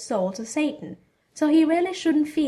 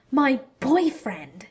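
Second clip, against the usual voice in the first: flustered outrage; 4 semitones higher, 3 dB louder, much slower than usual. Acted. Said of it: "had a difficult time spitting out the next words".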